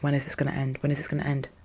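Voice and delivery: very soft, low murmur; weary inner thought. Retold or imitated. Exhausted staffer thinking to herself in a meeting, hushed weariness. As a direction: murmur it privately, drained.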